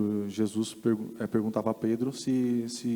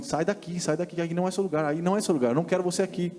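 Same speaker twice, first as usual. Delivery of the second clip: higher, pressing voice repeating get out; urgent command; 5 semitones higher, faster than usual. Retold or imitated. Holy Spirit urges her out of the club, higher and pressing. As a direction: insist like a voice that won't let go. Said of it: "falando assim".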